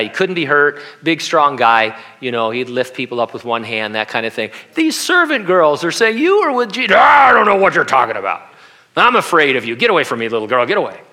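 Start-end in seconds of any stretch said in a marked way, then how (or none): 4.7-6.2 mock taunting. Pastor acting out the servant girls. 6.2-6.9 high, loud accusing shout; shrill taunting servant girl shout; mocking servant girl. Servant girls accusing Peter. 6.9-11.0 hammed-up scared Peter begging off a little girl; panicked denial.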